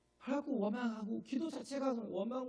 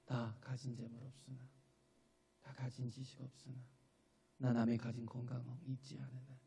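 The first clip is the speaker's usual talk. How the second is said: tender recitation; 9 semitones lower, 7 dB quieter than usual. Shown as a demonstration. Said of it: "저는 그 찬양이 너무 좋아요".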